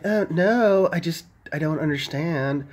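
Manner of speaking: mock Valley Girl, starting high. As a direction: imitate a puzzled Valley Girl. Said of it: "talks like she's, like, Valley Girl".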